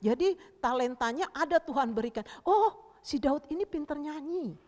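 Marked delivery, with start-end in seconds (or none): 2.4-4.6 higher, louder "oh", then admiring; delighted discovery. Acted. God noticing David can sing, delighted. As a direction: marvel at a gifted singer.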